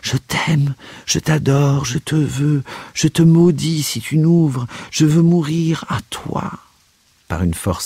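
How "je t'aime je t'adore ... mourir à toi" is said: high-pitched, frantic pleading; dying man crying out to his fleeing lover; desperate cries. A narrator's reading. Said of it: "cria le moribond".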